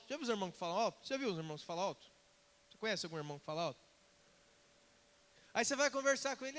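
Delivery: usual speaking voice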